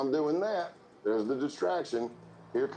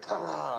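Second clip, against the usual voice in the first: imitated truck noise; 4 semitones higher than usual. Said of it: "Something just went".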